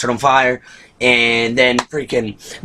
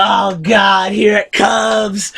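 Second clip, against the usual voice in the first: mock dread; 7 semitones higher, much slower than usual. Reviewer replaying his own dread at the scene, high yelp. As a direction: yelp it out like the worst is coming. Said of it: "and I'm like".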